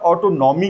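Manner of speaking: ऑटोनॉमी as auto-NAW-mee; common mispronunciation. Shown as a demonstration. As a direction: say "ऑटोनॉमी" with a full 'naw' in the middle. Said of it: "तो ऑटोनॉमी नहीं बोलते".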